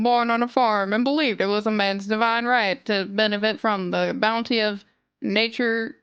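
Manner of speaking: put-on a light Southern lawyer accent, stretched in places; a hint of a hammed-up Southern courtroom orator; mildly voiced Southern drawl addressing the jury; exaggerated southern drawl. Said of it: "speaks in a very heavy and exaggerated southern drawl".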